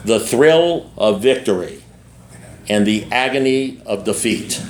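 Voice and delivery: slow, low sportscast intro; imitating a solemn TV announcer; TV sports announcer. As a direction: intone it slowly like a sports show opener. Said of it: "this is what the guy would say".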